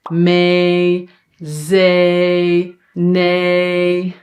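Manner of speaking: MAY, ZAY, NAY held long on a level pitch. Shown as a demonstration. Teacher gives examples of long E, held level. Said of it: "like long".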